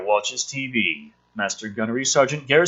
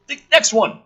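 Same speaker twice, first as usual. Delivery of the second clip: loud mock; 10 semitones higher, 5 dB louder than usual. Mock rereading.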